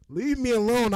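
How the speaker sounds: "Leave me alone" yelled high and loud; playing the pushed student, shouting. Acting as the student blocked from class, loud high yell. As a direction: bark it to shove them away. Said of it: "That's how I feel".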